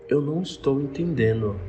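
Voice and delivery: retold slow, careful address; very slow, deliberate. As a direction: say it carefully for someone who may not understand. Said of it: "Eu falei bem devagar".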